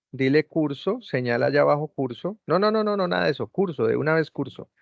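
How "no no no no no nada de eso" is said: higher, quick string of no; urgent correction. Real, not acted. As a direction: stop her before she clicks. Teacher stops wrong click. (corrección urgente y más aguda)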